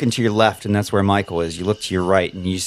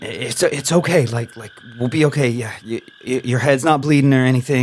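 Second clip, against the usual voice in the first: reassuring captive; 3 semitones higher than usual. Acted. GM voices Michael comforting Isabel.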